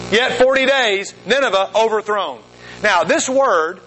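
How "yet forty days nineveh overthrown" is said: prophet's sermon. Acted. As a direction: lightly proclaim a stark warning, drawing it out. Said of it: "Here's Jonah's sermon".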